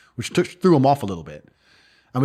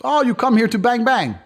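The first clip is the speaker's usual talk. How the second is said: put-on higher, taunting thug voice with a bit of an accent; mocking Moldovan guy; 10 semitones higher than usual. Moldovan man taunting the American at night, higher and mocking. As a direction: taunt him like a local tough. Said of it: "He goes".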